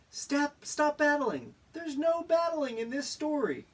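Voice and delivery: high, loud command to stop; high shouting stop. Acted. Storyteller stopping the battle, shouting high. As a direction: break up the fight.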